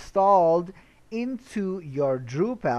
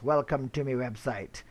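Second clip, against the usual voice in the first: pirate voice; 2 semitones lower than usual. Pretend. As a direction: say it like a pirate greeting. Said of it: "'cause I talk like a pirate".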